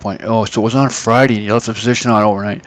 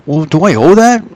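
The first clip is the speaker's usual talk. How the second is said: higher, innocent-sounding question; playing dumb; 7 semitones higher, 6 dB louder than usual. Caller pretending ignorance to the broker, innocently. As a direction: act clueless and naive. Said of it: "probably play dumb".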